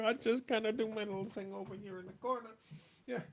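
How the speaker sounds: high-pitched little helpless whiner; mock helpless voice. Speaker parodying people who blame them, mock helpless squeak. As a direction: squeak it up high, playing powerless through chuckles.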